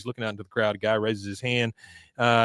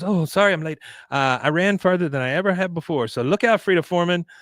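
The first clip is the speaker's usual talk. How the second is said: put-on higher, bubbly girl voice; perky Luann voice; 5 semitones higher than usual. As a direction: burst in chirpy and proud. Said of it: "she goes".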